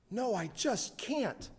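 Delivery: put-on a high girl's last no; firm girl. Girl refusing a kiss.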